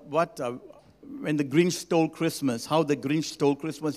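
ordinary delivery

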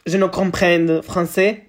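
slow, hammed-up French phrase; playing a fake French speaker, slowly; mock French. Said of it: "eu acho que falei agora um francês bom".

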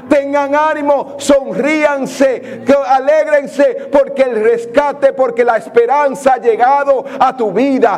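predica con fervor y énfasis, un poco más alto; predicación ferviente. Acted. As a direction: anima a la congregación con energía. Predica con fuerza creciente. (prédica animando a la iglesia a no temer, con fervor)

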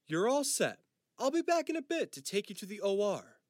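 brisk, cheerful orderly. Acted. Hospital orderly speaks to Jack.

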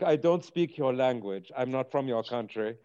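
lightly put-on foreigner voice; understated act of a stranger who lacks the language; Jason Bourne. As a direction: play it as a non-native speaker, lightly. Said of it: "the Jason Bourne where".

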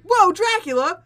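high, loud, drawn-out whoa; a mock starstruck gasp at meeting Dracula; mock amazement. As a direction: ham up the wide-eyed surprise, slowly. Mocking Giles being surprised.

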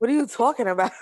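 exaggerated mock accent, playfully incredulous; Scott. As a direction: overdo his accent for laughs. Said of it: "his accent isn't even that bad".

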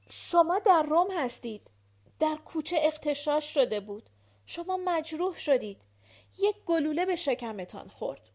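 loud, high, spelled-out statements; emphatic telling. A narrator's reading. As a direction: make a dazed man hear each fact. Repeating loudly to dazed wounded man.

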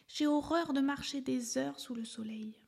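put-on a young elephant mildly complaining; little elephant voice. A narrator's reading. Little elephant talking to himself, lightly voiced high.

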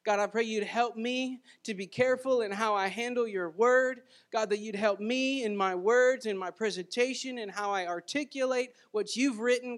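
earnest, steady prayer voice. Acted. Pastor opening the service in prayer, earnest prayer voice. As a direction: pray it over the congregation, unhurried. Pastor prays before the sermon.

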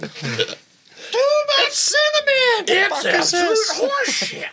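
high, slow, drawn-out chef rant; Gordon Ramsay impression. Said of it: "Gordon Ramsay shows up".

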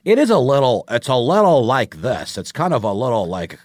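lightly mocked British actor's American accent; imitated American accent. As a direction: put on a slightly off American accent. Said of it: "he's doing an American accent".

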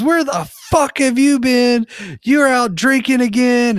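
high-pitched imitation of a scolding mother; shrieky mock telling-off, pitch way up; mom going off. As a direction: act out a mom laying into her daughter. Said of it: "just going off on this chick".

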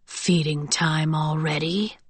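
slow, low, softly menacing question; musing. A narrator's reading. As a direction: savour the question, quiet and predatory. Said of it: "he mused".

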